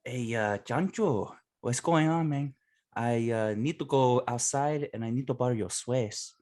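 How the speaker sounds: light put-on Spanish accent; hint of a Nacho Libre Spanish accent. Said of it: "show because I learned it from Nacho Libre".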